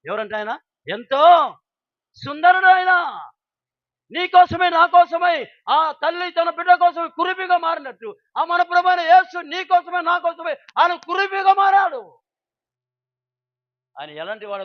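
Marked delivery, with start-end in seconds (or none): 0.9-12.2 fervent preaching. Acted. Preaching at full force.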